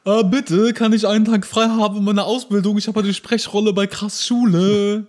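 high, loud put-on voice of a pleading trainee; mock pleading trainee. Pretend apprentice asks boss for day off. (hoch und laut gespielter bittender Azubi)

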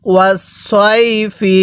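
slow ওয়াস সই ফি with a stretched সই; read-along recitation. Shown as a demonstration. Teacher leads learners reading aloud, slow measured ওয়াস সই ফি. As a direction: hold সই, then land evenly on ফি. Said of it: "আরেকবার পড়ুন".

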